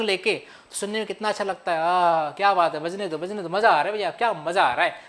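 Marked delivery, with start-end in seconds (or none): 1.8-4.9 low, savoring murmurs of delight; mild show of pleasure, lower voice; enjoying the music. Shown as a demonstration. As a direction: act out blissing out to a guitar. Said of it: "मतलब आपको भैया मज़ा आने लगता है".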